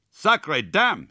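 high, loud foreign exclamation; startled, admiring oath; excited cry. A narrator's reading. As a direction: burst out in amazed French-Canadian swearing. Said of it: "he cried".

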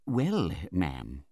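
lightly voiced mild, hesitant man; meek doctor. A narrator's reading. Doctor reports back to the aunt, meek. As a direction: begin meekly and deferentially. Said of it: "meekest manner".

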